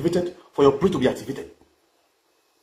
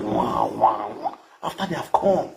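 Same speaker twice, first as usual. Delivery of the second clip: imitating snores; 9 semitones lower, much slower than usual. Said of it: "They will be snoring".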